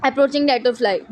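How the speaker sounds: drawn out, each word spaced for writing; very slow dictation. Shown as a demonstration. Teacher reading the book line to students, very slow. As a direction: spell it out slowly for note-taking.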